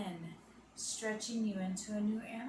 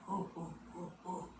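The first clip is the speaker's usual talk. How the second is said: soft gorilla hoots; 3 semitones lower, 6 dB quieter than usual. Shown as a demonstration. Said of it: "give our best animal voices".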